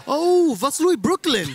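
high, loud delighted recognition; impressed listener. Acted. Listener mistaking Vaslui man for a Brooklynite, high excited reaction. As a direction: play someone thrilled and fooled, voice leaping up. Romanian fooled by the American accent.

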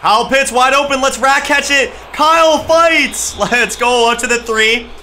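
excited. Real, not acted. Touchdown drive play call.

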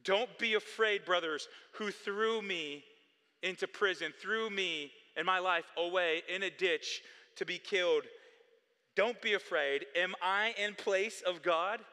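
lightly voiced Joseph calming his brothers; Joseph reassuring. Voicing Joseph comforting his brothers.

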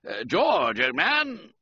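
calling down below, a narrated shout; mild shout. A narrator's reading. Reggie calling his friend below deck, a mild shout. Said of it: "I shouted".

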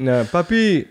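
put-on little kid voice. Correcting to child's word.

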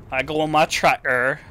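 put-on rural Yorkshire accent on a short line. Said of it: "Isn't it Yorkshire or something like that".

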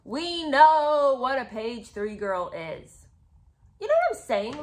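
loud and slow, fed up with being told; we know this, land each word hard; indignant. Real, not acted. Talking back to the book's explanation, indignant and loud.

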